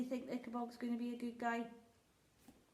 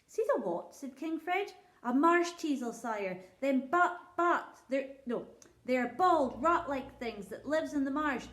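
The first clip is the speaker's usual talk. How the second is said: humble country shepherd, raised and eager; a poor shepherd pleading before his king; rustic old shepherd; 3 semitones higher, 5 dB louder than usual. Acted. Shepherd tells his tale.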